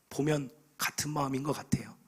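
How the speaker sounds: soft whisper to the congregation; whispered aside. Real, not acted. Preacher confiding about dawn worshippers, whispered.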